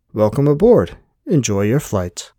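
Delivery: bright automated greeting; computer voice. Acted. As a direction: sound like a ship's system. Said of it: "The same voice said".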